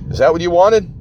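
hammed-up rant at the audience; angry yell. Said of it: "I'm fucking yelling at you".

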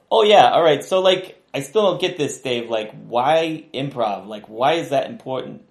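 lightly voiced New York cabbie; Jimmy voice. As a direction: skeptical cabbie, pressing the question. Jimmy quizzing Dave about improv.

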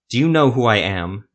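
loud, demanding bellow; shouted demand. Acted. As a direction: force the question on him. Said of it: "Zevo shouted, demanded".

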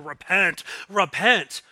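mildly scary horror-maze voice; scary preacher voice. Acted. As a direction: call it out like a haunted-house warning. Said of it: "in this deep, scary voice".

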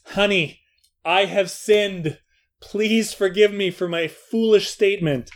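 slow, earnest husband owning up; mean it, say sorry slowly; sincere apology. Shown as a demonstration. Husband apologizing to wife, slow and sincere. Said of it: "You have to go a little further".

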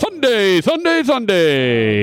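loud, high, slow announcer yell; monster truck ad. Pretend. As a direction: bellow it like a cheesy truck ad. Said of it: "there goes my eardrums".

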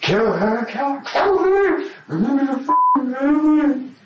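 high-pitched, strained imitation of yelling; retold yell. Suspect imitating the man ordering the killing, high yell. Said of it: "and he yelled".

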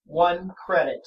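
level flat monotone; deadpan haggling monotone. Acted. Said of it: "same flat monotone voice over and over".

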